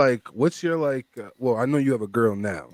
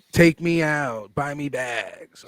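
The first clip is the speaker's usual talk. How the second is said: put-on demanding girl voice; much slower than usual. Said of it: "now it's just like".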